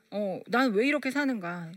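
ordinary talk, nothing marked

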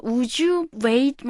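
very slow, each word laid out; slow model sentence. Shown as a demonstration. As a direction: spell it out slowly for learners. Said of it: "굳이 공손하게 사용하지 않고요".

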